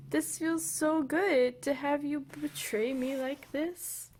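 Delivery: slow, high sarcastic lament; mock betrayed. Owner mock-lamenting the dog's betrayal, slow sarcasm. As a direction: ham up the betrayal.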